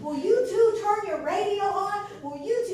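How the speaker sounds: loud impatient yell; retold yell. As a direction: yell at the kids to turn it on. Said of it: "she yelled at us".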